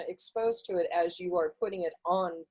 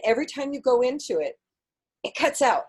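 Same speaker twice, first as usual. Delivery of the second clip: laughing; 8 semitones higher, 7 dB louder than usual. Real, not acted. Host laughing at audio dropouts.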